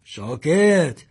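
father ordering silence; sharp hush. A narrator's reading. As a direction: cut him off sharply.

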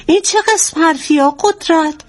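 high-pitched, indignant protest; offended denial. Acted. Wife denies to husband that she eyed other men, indignant. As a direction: protest your modesty, pitched well up.

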